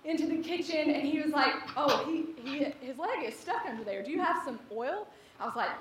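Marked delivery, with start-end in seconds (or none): 1.8-5.1 lightly voiced unruffled officer; understated, even questioning, trailing softer; calm police officer. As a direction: play the officer calmly taking stock. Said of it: "police officer is much calmer than I am".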